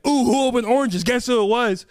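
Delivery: lightly taunting the class; mock bully taunt. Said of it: "he'd be like".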